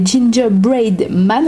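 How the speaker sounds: English words with a French accent; homemade English accent. Real, not acted. Vlogger naming her biscuits in English, French-accented English. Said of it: "avec mon super accent".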